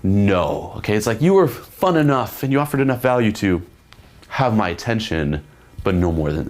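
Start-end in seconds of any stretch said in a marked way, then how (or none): 0.0-0.7 put-on girl turning him down. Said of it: "she's like".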